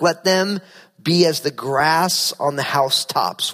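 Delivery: slow, deliberate scripture reading; preacher reading Psalm 129 slowly to the congregation. Acted. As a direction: read each phrase slowly, weighing it. Reads a psalm aloud.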